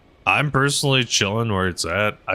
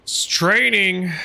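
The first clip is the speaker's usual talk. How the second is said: high put-on voice; 11 semitones higher, slower than usual. Shown as a demonstration. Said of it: "a good portion of it's training".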